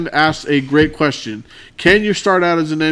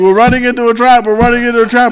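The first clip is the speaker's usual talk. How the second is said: loud, high, repeated mock screaming; 8 semitones higher, 5 dB louder than usual. Recounting a game fight with fleeing enemies, retelling his own scream. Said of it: "The whole time I'm screaming".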